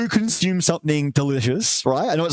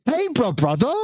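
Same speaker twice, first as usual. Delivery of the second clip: mock bro greeting; 7 semitones higher than usual. Calling out a viewer's phrase.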